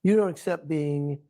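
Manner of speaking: usual speaking voice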